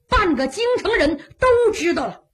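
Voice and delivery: ordinary delivery, nothing marked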